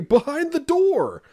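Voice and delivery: slow, high, loud drawn-out reply; imitating the daughter's smug answer. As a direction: draw it out like a smug kid.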